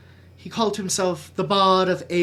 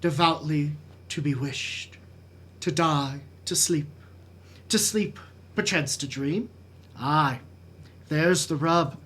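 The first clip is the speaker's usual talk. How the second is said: measured Shakespearean recitation with weighty pauses; dramatic soliloquy. Acted. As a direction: brood through Hamlet's soliloquy, letting phrases fall away.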